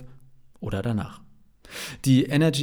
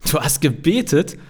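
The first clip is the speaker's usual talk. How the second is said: loud, high, amused disbelief; laughing question; 4 semitones higher, 6 dB louder than usual. A narrator's reading. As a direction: ask it as if laughing. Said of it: "fragt Kevin lachend". (belustigt, ungläubig nachgefragt)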